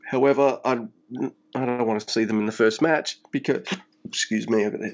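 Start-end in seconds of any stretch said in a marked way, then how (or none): 1.5-3.7 talking through a hiccup; a small hiccup cuts in. Real, not acted. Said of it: "slight hiccup there".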